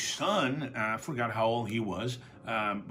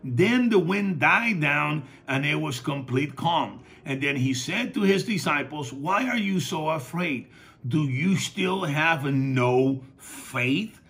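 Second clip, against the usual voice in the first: loud, raised-pitch sermon delivery; fervent preaching; 5 semitones higher, 5 dB louder than usual. Real, not acted. Preacher retells Jesus calming the storm for the congregation, fervent preaching. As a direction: preach it out with punched phrases.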